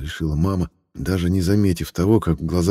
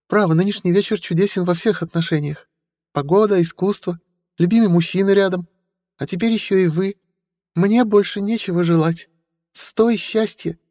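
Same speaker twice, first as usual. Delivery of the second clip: chirping sweetly; 13 semitones higher than usual. Acted. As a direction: coo like a cartoon princess. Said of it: "прощебетала Стелла".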